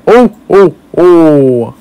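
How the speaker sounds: high, loud Santa ho-ho-ho; Santa laugh. Acted. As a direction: belt out a jolly Santa laugh. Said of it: "I'm good at making Santa laugh".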